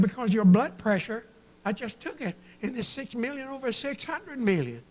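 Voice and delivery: high loud exaggerated alarm; alarmed doctor. Doctor announcing a huge blood pressure, mock alarmed. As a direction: blurt the absurd number in mock panic.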